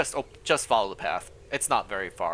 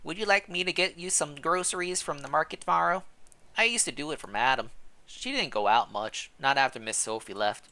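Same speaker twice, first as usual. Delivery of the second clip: put-on a friendly old servant, pitched up; old housekeeper; 4 semitones higher than usual. Housekeeper Gilberte greeting the newcomer, high old woman voice.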